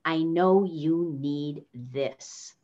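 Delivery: slow, the tone going down on "this"; falling authoritative tone. Shown as a demonstration. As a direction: say it firmly, landing low. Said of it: "So you say".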